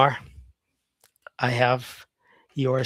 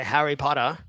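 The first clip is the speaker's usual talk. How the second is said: Australian accent. Shown as a demonstration. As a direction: say Harry Potter like an Australian guy. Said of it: "an Australian guy would say".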